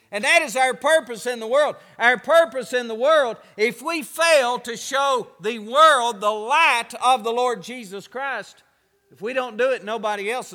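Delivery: loud, rising preacher's cry to the congregation; full-force preaching. Acted. Pastor urging his church, loud preaching. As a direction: hammer the purpose home, loud.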